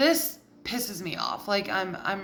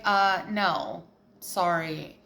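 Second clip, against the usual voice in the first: low, softer mock-helpless partner; controlling partner; 5 semitones lower, 3 dB quieter than usual. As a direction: refuse in a low, subdued partner's voice. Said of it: "whoever you're with is like".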